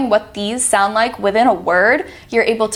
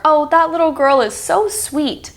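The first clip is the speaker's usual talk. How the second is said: higher fond gush; gushing over a child; 7 semitones higher than usual. Retold or imitated. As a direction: coo about a sweet girl.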